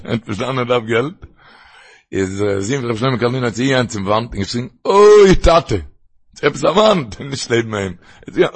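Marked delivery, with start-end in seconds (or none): 4.8-5.9 imitated cry, "oi" high and stretched long; drawn-out pleading call. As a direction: wail out to Father, then drop away. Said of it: "in Schreien".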